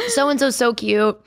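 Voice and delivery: slow, gushing with ice in mouth. Real, not acted. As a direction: gush around the ice cube. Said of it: "I have an ice cube in my mouth".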